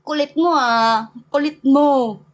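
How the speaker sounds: mock teasing. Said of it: "I'm like".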